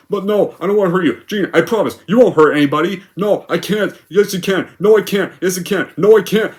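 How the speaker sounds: volley it like a petty squabble; mock back-and-forth. Jean and Raven mocked bickering, childish tone.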